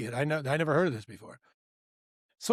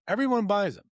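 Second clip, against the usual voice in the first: higher, louder incredulous repeat of "Everyone"; disbelieving echo; 7 semitones higher, 4 dB louder than usual. Retold or imitated. The manager repeats the news in disbelief. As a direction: echo it back like you can't believe it.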